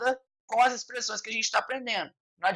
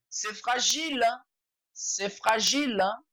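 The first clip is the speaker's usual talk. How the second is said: ironic; 2 semitones higher than usual. Retold or imitated. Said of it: "bem irônico".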